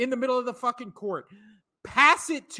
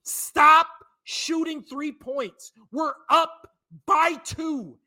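mock coach barking at his players, bursts louder and higher; angry coach yelling; 3 semitones higher, 3 dB louder than usual. Doc Rivers should yell at his team to stop shooting threes, furious mock shout. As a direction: play the fed-up coach chewing out his team. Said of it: "talk to your team and be like".

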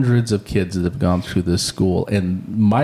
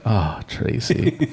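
slow knowing imitation; much slower than usual. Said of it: "now I do the same thing".

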